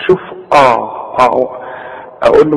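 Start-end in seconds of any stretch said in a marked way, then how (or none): 0.5-1.5 آه with a thick, dark "a"; wrong heavy hamza. Shown as a demonstration. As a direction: open أعو- on an over-heavy hamza. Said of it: "فما تقولش آه". (آه بهمزة مفخمة غلط)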